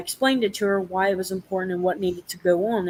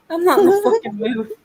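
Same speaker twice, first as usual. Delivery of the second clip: higher and louder, fed-up outburst; angry snap; 9 semitones higher, 6 dB louder than usual. Retold or imitated. Telling off the girl who pissed her off, angry raised voice. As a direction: shut her down hard, voice raised.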